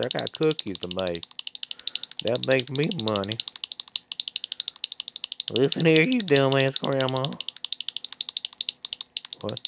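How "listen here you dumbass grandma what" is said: put-on bratty voice, some words stretched slow; mock tyrant voice making grandma serve; bossy mock voice. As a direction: lord it over grandma in a silly voice. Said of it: "I don't know why I'm doing that voice".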